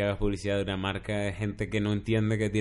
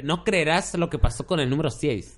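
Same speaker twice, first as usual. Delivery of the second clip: high, punchy teaser voice; clickbait video narrator; 6 semitones higher than usual. Pretend. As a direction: hype it like a listicle video. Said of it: "siempre me imagino una voz así".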